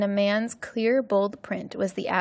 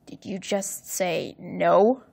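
slow, threatening question; menacing; slower than usual. Acted. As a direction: let the threat sink in word by word. Stepfather menacing the mother.

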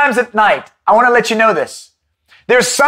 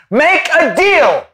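tempting devil; 4 semitones lower than usual. Retold or imitated. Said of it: "as the devil is saying to you".

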